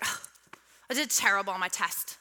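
hint of a dramatic teen wail; mock teen daughter. Pastor imitates her daughter whining about a test, mildly hammed-up. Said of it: "She doesn't talk like that".

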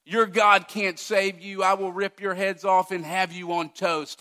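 mildly hammed-up Goliath bellow; a preacher lightly voicing a boastful giant; mock giant's taunt. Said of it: "Goliath shouting".

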